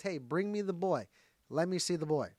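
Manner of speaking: mildly impatient acted command; a little frustrated. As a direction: retell it as a brisk, slightly exasperated order. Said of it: "So Jesus is a little frustrated".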